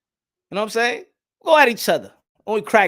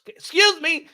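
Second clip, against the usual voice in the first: mock polite excuse me; 7 semitones higher, 3 dB louder, slower than usual. Imitating a New Yorker hurrying past.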